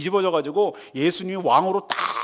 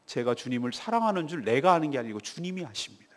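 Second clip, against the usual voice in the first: lower, softer, subdued reply; humbled answer; 5 semitones lower, 4 dB quieter than usual. Retold or imitated. Broken Peter answering the Lord, humbled and quiet. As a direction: voice a disciple with the boast gone. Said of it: "세 번이나 부인하고 나서 꺾였어요".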